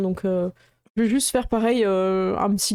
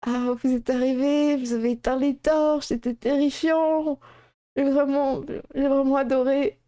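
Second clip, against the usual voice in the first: put-on lightly higher thrilled kid; a kid who loved the scare; child voice; 4 semitones higher than usual.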